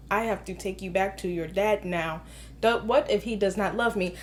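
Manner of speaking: low, hushed robot line reading; robot talking. Retold or imitated. Movie critic acting out stilted dialogue, mock robot voice. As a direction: imitate wooden actors talking like robots. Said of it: "Robot talking".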